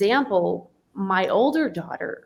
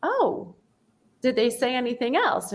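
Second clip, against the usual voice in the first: gently curious; 5 semitones higher than usual. Retold or imitated. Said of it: "But instead I said".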